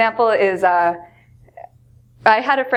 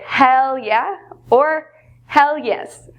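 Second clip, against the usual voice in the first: emphatic yes; 4 semitones higher, much slower than usual. Shown as a demonstration. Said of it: "feel very strongly".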